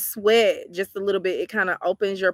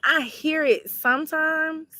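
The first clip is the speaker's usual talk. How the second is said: slow, high, drawn-out Southern accent demo; showing her accent; 9 semitones higher, slower than usual. Shown as a demonstration. Answering a viewer about her accent, slow high drawl. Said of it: "You said my accent?".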